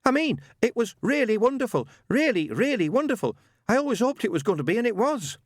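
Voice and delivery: high, loud and calling out. A narrator's reading. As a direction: call it through the bathroom door. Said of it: "Newt raised his voice".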